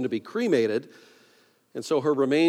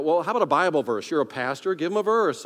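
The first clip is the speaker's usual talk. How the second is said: higher, pushy self-prompting; urging inner voice; 4 semitones higher, 5 dB louder than usual. Acted. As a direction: prod yourself for an answer. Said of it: "And then I thought".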